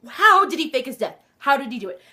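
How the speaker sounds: loud, eager wondering; eager questions. Real, not acted. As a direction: ask it with burning curiosity. Voicing her burning questions.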